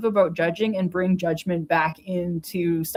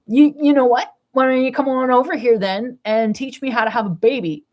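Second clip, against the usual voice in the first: angry retort; 4 semitones higher, 4 dB louder than usual. Retold or imitated. Imagined retort to glaring neighbor.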